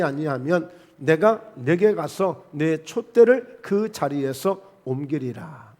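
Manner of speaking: slow, measured Bible recitation; scripture reading. Real, not acted. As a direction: lead a congregation reading aloud, unhurried. (천천히 또박또박 성경 봉독)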